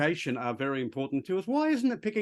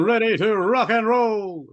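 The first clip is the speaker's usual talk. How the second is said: excited; 4 semitones higher, 5 dB louder than usual. Real, not acted. Contestant called up, eager.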